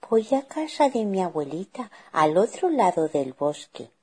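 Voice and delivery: lightly voiced child; little girl. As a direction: answer as an innocent girl. Girl answers the wolf.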